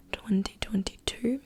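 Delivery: put-on British accent slipping into Australian, rising at the end; whispery accidental Australian lilt. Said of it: "See, that was Australian".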